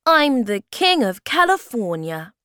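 high, loud mock-royal announcement; playful, amused. A narrator's reading. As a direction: announce it grandly, as a game. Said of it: "so he laughed and said".

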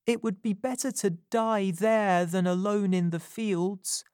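put-on hushed private thought of a hurt boy; inner thought. Wounded boy thinking to himself, lightly voiced boy. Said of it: "he thought".

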